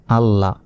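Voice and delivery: আল্লাহ with the ল held double, ending on an open "la"; teacher's careful double-L in আল্লাহ; doubled lam. Shown as a demonstration. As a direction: sound ল twice in আল্লাহ, as "al-la". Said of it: "তারপর আবার বলতে হবে লাম জবর লা".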